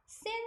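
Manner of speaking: "sin" with a single S sound; syllable demo. Shown as a demonstration. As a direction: isolate "sin" clearly for learners. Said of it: "이렇게 발음하시면 되고". ("sin"을 S 한 번만 발음)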